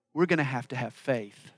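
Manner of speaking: low, soft understatement; understated. Real, not acted. Preacher admits to congregation the need for faith, understated. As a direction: say it quietly and matter-of-factly. Repeats the line for emphasis.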